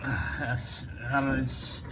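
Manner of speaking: cramped, strained voice from under a car; talking while squeezed under a car; lying under a car. Real, not acted. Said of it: "I'm under the car and it's pretty tight".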